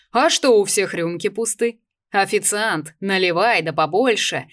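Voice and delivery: loud, booming party host; rumbling bass host. Acted. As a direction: roar like a rowdy toastmaster. Пророкотал бас Мирона.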